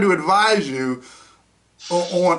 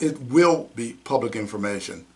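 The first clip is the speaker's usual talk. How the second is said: mocking quote; 7 semitones lower, 4 dB quieter than usual. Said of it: "It's not".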